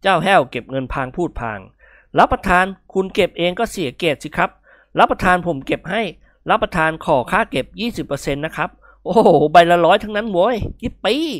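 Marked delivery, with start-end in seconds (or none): 1.9-11.3 lightly voiced cheeky servant, rising to glee; wheedle, then burst into a whoop; servant's eager chatter. Servant gathering banknotes for his master, eager and gleeful.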